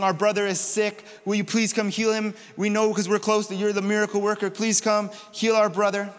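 earnest, insistent appeal; urgent plea. Acted. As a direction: plead on a sick brother's behalf. Sisters' plea to Jesus retold.

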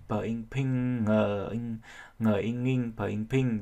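Vietnamese-style syllable drill on "ping"; spelling out sounds. Shown as a demonstration. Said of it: "các bạn chỉ nói y bình thường".

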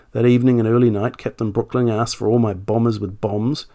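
reading an officer's statement in a light generic British accent. Shown as a demonstration. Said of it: "just do a generic accent".

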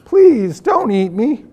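scared pleading. A narrator's reading.

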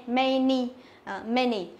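"many" with the A said as a short E; teacher's model "many" with an E sound; A read as E. Shown as a demonstration. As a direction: say "many" like "men-ee". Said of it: "có chữ A đọc là âm E".

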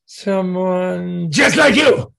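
drawn out slowly, teasing menace; ominous slow reveal. Retold or imitated. The lama teasing the young interviewer, slow ominous reveal. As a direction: stretch it out to scare him.

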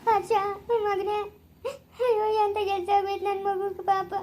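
sobbing lament; crying. Acted. Mother at son's hospital bed, sobbing. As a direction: cry out the pity of it. Mother weeps over injured son.

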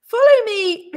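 high, loud summons; hearty loud invitation; calling out. A narrator's reading. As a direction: call someone along, voice lifted. Mr Brown calls the bear along.

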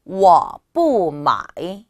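워 뿌 마이 slow and loud, each tone separated; model pronunciation. Shown as a demonstration. Teacher joins the words for learners, slow exaggerated tones. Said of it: "다시 한번".

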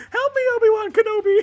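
high, laughing plea in a put-on voice; hammed-up plea for help; pleading movie princess. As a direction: beg dramatically through laughter. Quoting a famous movie line.

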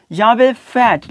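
फैट with the vowel stretched long; teacher stretching फैट long; long sound. Shown as a demonstration. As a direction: draw out फैट slowly. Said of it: "long sound है".

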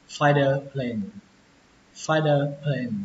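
"fighter plane" with t softened to d; flapped-t variant; third reading. Shown as a demonstration. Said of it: "Cách đọc thứ ba".

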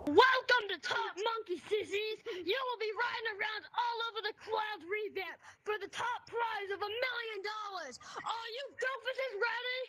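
booming prize announcer. Acted. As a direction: boom it out to the racers. Monkey boss announces race start.

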